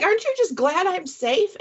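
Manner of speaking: high, incredulous question; baffled plea. Retold or imitated. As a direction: plead it high, puzzled he isn't relieved. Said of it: "I'm like".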